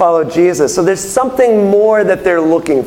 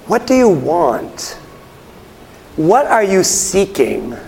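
searching question; slower than usual. Acted. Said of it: "the kind of thing I'm imagining that he's asking".

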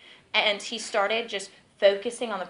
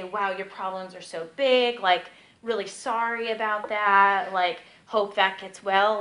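drawn-out, hollow condolence; mock sympathy; 3 dB louder, slower than usual. Prayer helper pitying someone's problems, slow mock sympathy. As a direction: imitate an unhelpful, slow commiseration.

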